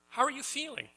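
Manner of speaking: mock innocent punchline. Preacher voicing the driver asking after shooting the animals. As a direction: deliver the dark punchline with a laugh.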